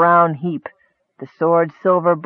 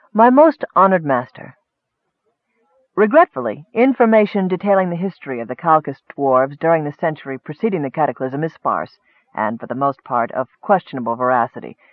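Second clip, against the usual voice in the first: formal scribe's letter. Acted. Scribe reporting to his lorekeeper master, formal. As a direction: address the master with ceremony.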